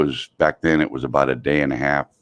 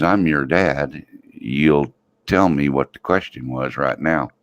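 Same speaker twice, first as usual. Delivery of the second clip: slow, weighted parental order; acted dad demanding an answer; stern father; slower than usual. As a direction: lay down the law slowly.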